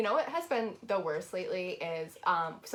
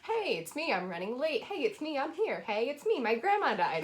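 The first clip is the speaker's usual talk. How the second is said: mock caller voices; 5 semitones higher than usual. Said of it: "People will just call and be like".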